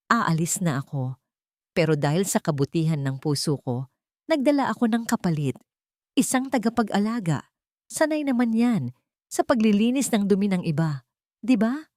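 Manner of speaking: mock her sister sweetly; a spoiled sister's false kindness; mocking sneer. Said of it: "mapanuyang ngiti".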